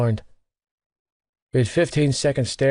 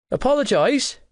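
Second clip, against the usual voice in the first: higher, haughty demand drawn up at the end; mock order; 12 semitones higher than usual. Gibbsy demanding Johnny say sorry, hammed-up order. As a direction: insist like a wounded diva. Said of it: "he ordered".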